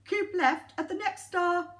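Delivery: bossy sat nav lady; lightly bossy navigation voice; bossy lady's voice. Acted. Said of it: "in a bossy lady's voice".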